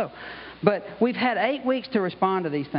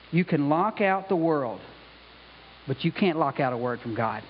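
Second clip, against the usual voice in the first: slow and sincere; 4 semitones lower than usual. Shown as a demonstration. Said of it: "the impact of what she said is very, very strong".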